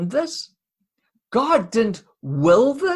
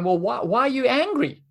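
dismissive God; 4 semitones higher, faster than usual. Pretend. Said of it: "by saying".

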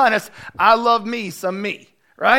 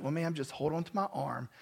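gentle; 4 semitones lower, 11 dB quieter than usual. Retold or imitated. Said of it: "he was so gentle with her".

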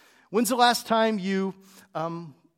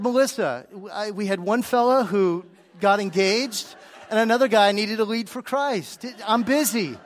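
a touch exasperated, pitched up; mock-indignant defence; 4 dB louder than usual. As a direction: plead your case to your wife, mildly indignant. Defending himself to his wife.

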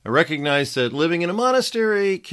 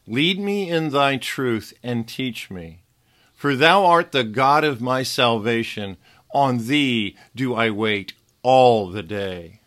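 scripture reading. Acted. Reads Psalm aloud.

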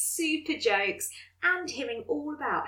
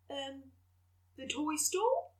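unsure; 3 semitones higher, 4 dB quieter than usual. Acted. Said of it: "I replied, a little unsure".

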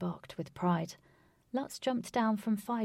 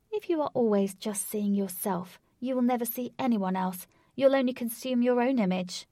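put-on louder, exasperated young woman; heroine arguing; 4 semitones higher, 6 dB louder than usual. A narrator's reading. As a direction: lecture him, fed up. Voices heroine Katy arguing.

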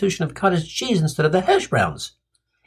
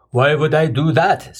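puzzled big guy; 4 dB louder than usual. Acted. Big guy questions the suggestion.

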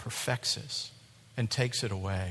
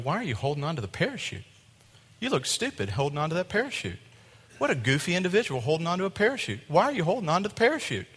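quick, higher-pitched ridicule; mocking onlookers; 4 semitones higher, faster than usual. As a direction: scoff quickly like puzzled passengers. Onlookers mocking the parachute holder.

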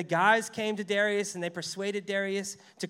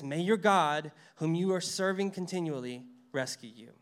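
mean every word of it; sincere; 3 dB louder than usual. Shown as a demonstration. Preacher voicing the king's sincere blessing. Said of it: "with full sincerity".

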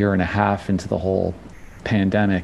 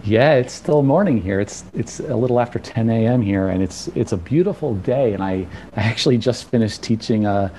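slightly out of breath after class; talking while catching breath. Real, not acted. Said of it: "so I'm a little out of breath".

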